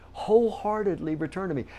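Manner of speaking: high-pitched emphasis on "Wholeheartedly"; stress on Wholeheartedly. Real, not acted. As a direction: lift "Wholeheartedly" to drive the point home. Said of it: "Do you see the emphasis?".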